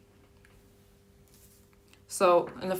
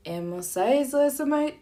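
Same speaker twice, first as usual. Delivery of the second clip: demo Japanese order; 7 semitones higher than usual. Shown as a demonstration. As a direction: sweetly order in Japanese at the counter. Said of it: "you could say".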